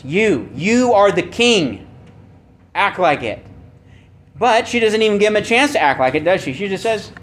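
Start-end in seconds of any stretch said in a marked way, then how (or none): 0.0-1.9 "You" repeated and leaned on, slow; stress on You. Shown as a demonstration. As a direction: hit "You, you" hard and slow. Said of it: "with the word you ... as an emphasis".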